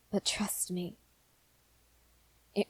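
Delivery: soft unvoiced whisper; a hushed, earnest warning; whispered plea. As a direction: lean in and whisper it.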